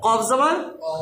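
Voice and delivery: "ক" with a heavy rounded vowel; thick Qaf. Shown as a demonstration. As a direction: spell it, then a full "ক". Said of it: "মোটা করতে হবে sound".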